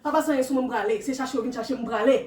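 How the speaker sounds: loud frantic ranting; possessed ranting. Acted. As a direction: rant frantically. Acting possessed.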